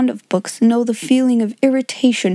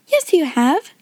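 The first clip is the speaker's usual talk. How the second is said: higher-pitched, cheery reassurance; cheerful; 6 semitones higher than usual. A narrator's reading. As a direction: contradict a crying child brightly and kindly. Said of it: "said Sarah cheerfully".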